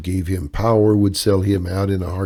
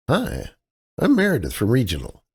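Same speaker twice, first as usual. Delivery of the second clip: put-on Midwestern accent, pitched higher; bright-faced Midwestern greeting, a higher voice; 4 semitones higher than usual. Kaylee greets the desk clerk in a Midwestern accent. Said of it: "she said in her best Midwestern accent".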